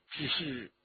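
soft, hesitant tenderness; gentle, hesitant. A narrator's reading. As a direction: break off gently before bad news. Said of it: "柔声地说". (柔声而迟疑)

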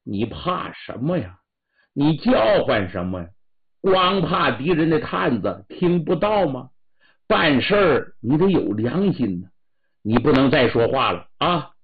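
husband scolding his frightened wife, building anger; angry husband. Acted. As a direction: tell her off, voice rising in anger. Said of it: "心中有五火".

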